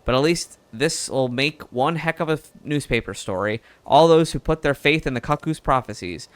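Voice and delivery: lightly southern reporter voice, easygoing; southern accent. Acted. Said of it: "now it's going really southern".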